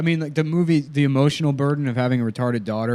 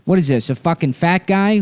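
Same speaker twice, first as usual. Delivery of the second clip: higher, testy impression attempt; Buscemi; 5 semitones higher than usual. Host repeating a line to nail the impression, Buscemi attempt. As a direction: work at the actor's indignant question. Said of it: "Why is he so fucking hard to do?".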